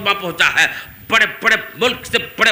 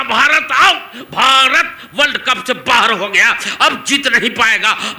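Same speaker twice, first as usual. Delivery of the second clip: excited outcry; 4 semitones higher than usual. Acted. Youths crying out when Tendulkar's out.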